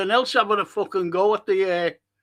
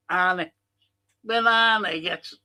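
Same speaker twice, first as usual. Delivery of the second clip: muttered disbelief under the breath; whisper. Real, not acted. Fan reading a silly comment in disbelief, whispered. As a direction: whisper it, almost to yourself.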